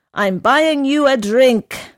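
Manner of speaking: eager offer. A narrator's reading. Horse offers drinks loudly.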